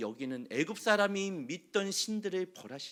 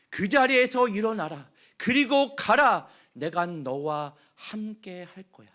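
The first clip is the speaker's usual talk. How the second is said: God's loud command; 2 semitones higher, 7 dB louder than usual. Acted. Preacher as God ordering Moses to rise, booming command. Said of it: "이 말씀을 하시는 겁니다".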